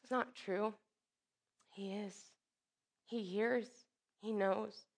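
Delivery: soft, hushed words with space between them; gentle reassurance. Real, not acted. Preacher assuring the suffering that God hears, gentle reassurance. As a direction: quietly comfort the hurting. Reassuring listeners who feel unheard.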